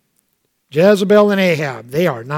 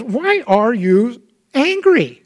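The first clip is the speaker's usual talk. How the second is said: God's voice; 5 semitones higher, slower than usual. Acted. God voiced asking Cain.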